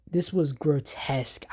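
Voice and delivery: hushed and breathless, almost unvoiced; shocked whisper. Real, not acted. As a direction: whisper it as if you can't believe what you see. Reacting in disbelief to game clip.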